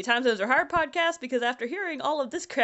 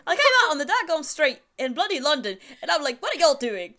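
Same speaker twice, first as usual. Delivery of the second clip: mock British accent on Southern slang. Performing y'all on request, mock British accent. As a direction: put "y'all" through a fake British accent. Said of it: "you gotta say y'all in a British accent".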